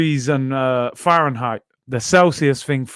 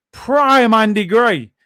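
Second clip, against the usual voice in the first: slow, high Scottish commentator impression; mock Scottish accent; 7 semitones higher, 5 dB louder, slower than usual. Answering a viewer about his Scottish accent, mock Scottish drawl. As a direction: drawl it out like Andy Gray doing commentary. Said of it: "that Scottish accent needs some work".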